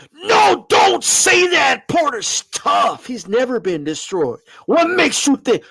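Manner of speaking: high, shouted objection from a doubter; hammed-up skeptic crying out; mock doubter. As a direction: mimic the whiny critic, up high.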